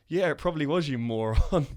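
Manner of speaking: exasperated retort. Retold or imitated. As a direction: imitate a fed-up put-down. Retelling a character's exasperated insult.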